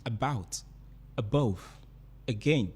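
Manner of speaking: unstressed first syllable, stressed second in "about", "above", "again". Shown as a demonstration. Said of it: "are unstressed".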